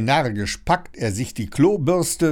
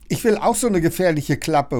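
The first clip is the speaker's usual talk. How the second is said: put-on higher, eager boyish shout; excited call; 6 semitones higher, 3 dB louder, faster than usual. A narrator's reading. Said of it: "ruft Leon aufgeregt".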